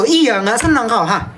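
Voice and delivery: slow grumble. Pretend. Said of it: "Ayo misu dengan sabar".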